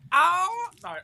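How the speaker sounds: high, exaggerated sitcom-character cry; Janice. Showing off an American impression to co-hosts, high caricature. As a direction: launch into a very high-pitched caricature. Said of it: "I do a Janice".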